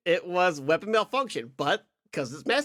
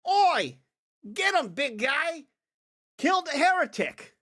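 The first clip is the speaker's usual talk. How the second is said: high, rough-and-ready guardsman's order; 8 semitones higher than usual. Acted. Guardsman siccing his big ally on a heretic, urgent shout. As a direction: call out the attack as a guardsman. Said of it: "the one guardsman goes".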